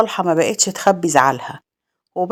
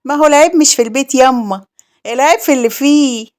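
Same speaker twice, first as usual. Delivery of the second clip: higher, catty voice with a sneer; sly mocking jab; 5 semitones higher than usual. Sister-in-law mocking the childless wife, sly and catty. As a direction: needle her with a snide higher voice. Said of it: "وهي بتضحك بخبث وبتقول".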